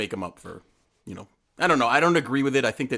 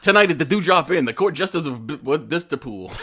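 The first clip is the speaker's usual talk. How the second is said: loud, high club emcee; announcer voice; 4 semitones higher, 5 dB louder than usual. Pretend. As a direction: hype up the band. Mock band announcement.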